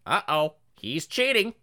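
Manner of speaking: high, slow parrot voice; tattletale parrot. Acted. Classroom parrot telling on a cheater, high and slow. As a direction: squawk out an accusation like a parrot. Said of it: "then the parrot would go".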